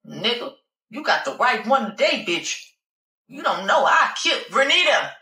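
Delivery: a touch of swaggering fury; angry threat. Acted. Passenger threatening the departing cab driver, mildly furious.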